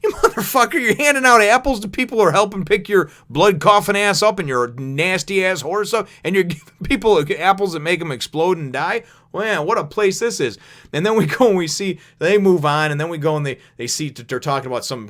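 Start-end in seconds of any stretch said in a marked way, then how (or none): 0.0-10.6 high, loud, laughing outrage; laughing disbelief. Real, not acted. Narrator ranting at the apple-giver, laughing loudly. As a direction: cackle through the rant at the absurdity. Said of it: "And I'm thinking".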